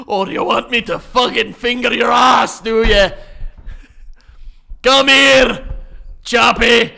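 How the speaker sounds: loud, high put-on Scottish yell; shouted mock Scottish accent. Mocking how Scots flirt, in a shouted Scottish accent. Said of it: "You'd be like".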